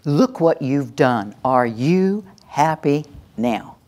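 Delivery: slow, biting parental sarcasm; a slow, mocking "Are you happy now"; sarcastic blame. Shown as a demonstration. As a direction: drag out the scolding slowly. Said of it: "And again".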